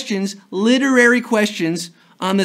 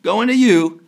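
slow, higher mock auctioneer call; 5 semitones higher, much slower than usual. Host teasing players like an auctioneer. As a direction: stretch it out like a hammy auctioneer.

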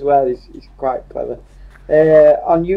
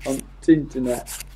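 Yorkshire dialect. Shown as a demonstration. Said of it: "make his own words up in Yorkshire".

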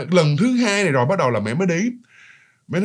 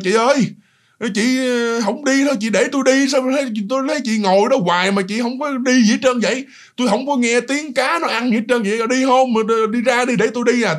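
annoyed pleading; 5 semitones higher than usual. Retold or imitated. Mom, pregnant, urging a stranger out of the toilet, annoyed. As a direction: press the stranger to hurry, irritated. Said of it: "mẹ mới bực nha".

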